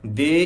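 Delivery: দে as a full held syllable; wrong full "de". Shown as a demonstration. Teacher showing what to avoid, over-full দে. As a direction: sound দে out completely and long. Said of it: "এভাবে আসবে না".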